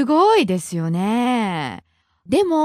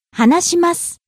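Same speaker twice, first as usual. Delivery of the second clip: 話します rising on な, falling on the last す; pitch accent demo; 4 semitones higher than usual. Shown as a demonstration. Teacher models the masu form, 話します rising on な and falling on す. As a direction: climb at な in 話します and drop at す. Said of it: "Rising on the second syllable na".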